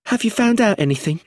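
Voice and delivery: high anxious question; anxious widow pressing for news; nervous. A narrator's reading. Frightened widow asking inspector, high and anxious. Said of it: "her hands twisting nervously".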